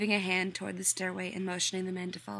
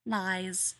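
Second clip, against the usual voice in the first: amused mutter. Acted. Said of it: "John muttered, amused".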